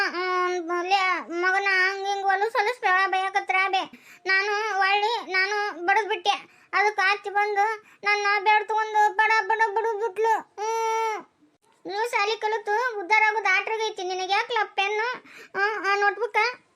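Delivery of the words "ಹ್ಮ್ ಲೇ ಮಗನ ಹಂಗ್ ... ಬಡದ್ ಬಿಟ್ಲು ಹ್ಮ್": sniffling retelling between sobs; whimpering child. Acted. Son tells father about the notebook fight, sniffling. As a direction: keep the crying under the story.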